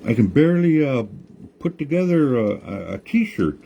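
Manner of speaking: put-on high, distressed old woman scolding; grandma wailing at the tree over her ruined camp; upset grandma yelling. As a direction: cry out at the tree who broke his promise. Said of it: "she yelled at that tree".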